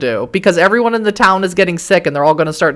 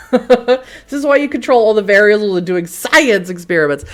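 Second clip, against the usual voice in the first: laughing; 4 semitones higher than usual. Real, not acted. Laughs while commenting.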